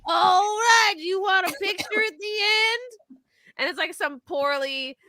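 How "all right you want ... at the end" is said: higher hammed-up ride announcer; a cheesy recorded ride host asking about a photo; water park ride voice. Host imitating the water park recording, higher hammed-up voice. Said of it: "launch into the recording that's on".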